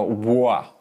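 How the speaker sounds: Wah with a full rounded w; exaggerated w sound; over-exaggerated w. Shown as a demonstration. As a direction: overdo the w on Wah. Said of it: "some people over-exaggerate and go".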